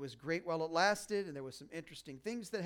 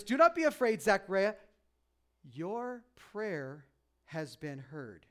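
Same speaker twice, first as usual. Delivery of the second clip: booming angel; 2 semitones higher, 6 dB louder, slower than usual. Retold or imitated. The angel telling Zechariah his prayer is heard, booming then fading. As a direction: announce it like a mighty angel, then ease off. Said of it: "here's what the angel says".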